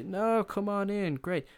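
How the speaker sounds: high, slow and sugary mock welcome; fake welcome. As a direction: greet him with fake cheer. Mock-friendly shopkeeper welcome.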